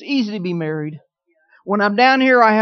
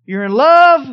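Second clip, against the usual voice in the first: You're in love, much louder and higher; 5 semitones higher, 11 dB louder, slower than usual. Shown as a demonstration. Preacher charting marriage love, loud and high peak. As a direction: belt out the high point of the graph. Graphing love level demo.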